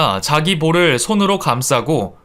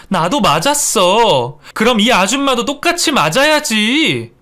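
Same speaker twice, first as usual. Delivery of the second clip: resentful protest; 7 semitones higher than usual. Acted. Slapped wife demanding mother-in-law be hit too, resentful. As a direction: protest bitterly, rising in pitch.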